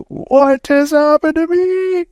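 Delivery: high drawn-out cry of astonishment; stunned disbelief. Retold or imitated. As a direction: draw it out, overwhelmed and bewildered. Breaking down after the experience.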